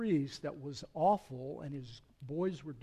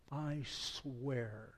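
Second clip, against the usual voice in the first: softer, lower, held back; solemn oath; 3 semitones lower, 6 dB quieter than usual. Acted. Preacher rereading God's oath, hushed and grave. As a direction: let the oath sink in quietly. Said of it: "when God raises his hand and swears".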